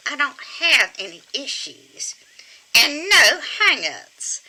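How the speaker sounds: slow, small puppet granny; squeaky ventriloquist dummy. Pretend. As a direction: deny it primly as the puppet. Puppet denies having issues.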